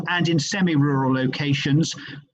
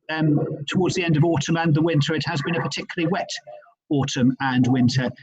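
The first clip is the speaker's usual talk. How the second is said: bad line with a gurgling, underwater sound; 2 semitones lower than usual. Real, not acted. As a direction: voice gurgling as if in water. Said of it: "we're getting a gurgling sound while you're speaking".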